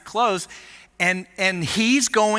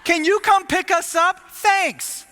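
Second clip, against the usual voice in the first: sheepish phone request; 8 semitones higher than usual. Retold or imitated. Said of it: "calling my mom and dad".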